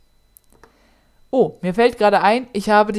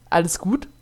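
softer, gentle check-in; mildly concerned; 3 semitones lower, 5 dB quieter than usual. Acted. Boy checking on his date, mildly worried. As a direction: ask with a touch of concern, softly. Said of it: "fragte er dann besorgt".

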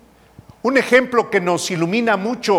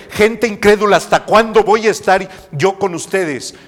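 louder, stern rebuke; strong reproach; 3 semitones higher, 4 dB louder, faster than usual. Retold or imitated. Cristo reprocha a la gente incrédula, fuerte y severo. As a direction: scold the faithless crowd hard. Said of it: "es un reproche muy fuerte".

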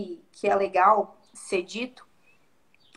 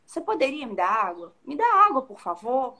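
polite request. Shown as a demonstration. The polite tone Jesus did not use, asking gently. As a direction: ask kindly, as a favour. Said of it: "não é aquele tom de".

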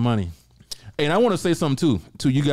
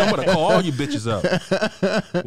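laughing threat; 2 semitones higher, slower than usual. Real, not acted.

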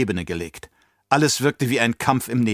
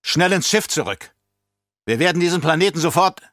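urgent emperor; 6 semitones higher than usual. Acted. Emperor orders escape urgently.

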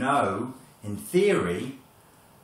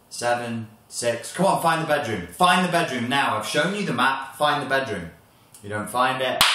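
loud, higher, harassing countdown; angry shouting; 4 semitones higher, 6 dB louder than usual. Acted. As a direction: bark it at them. Tormentor counts down, pressures.

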